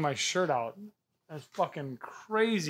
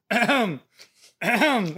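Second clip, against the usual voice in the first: throat clearing; 5 semitones higher, 5 dB louder, slower than usual. Retold or imitated.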